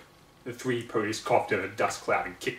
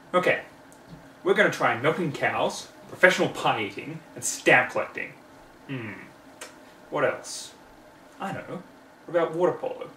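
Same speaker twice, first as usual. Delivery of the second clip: a hint of a brisk filly reading her list; bossy little filly going through her clipboard; lightly voiced Scootaloo; 2 semitones higher than usual. Scootaloo reads her list to friends, lightly voiced.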